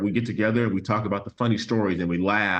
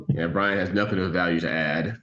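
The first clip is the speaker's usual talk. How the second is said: dry sarcastic jab; 3 semitones lower than usual. Acted. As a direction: say it tongue in cheek. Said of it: "I'm being sarcastic".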